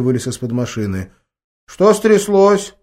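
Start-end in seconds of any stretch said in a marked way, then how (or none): 1.7-2.7 put-on slow, high child's voice, self-important; sedate little boy. A narrator's reading. Grandson answers grandma sedately, slow child voice. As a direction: play the boy acting grown-up and unhurried. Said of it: "степенно ответствовал он".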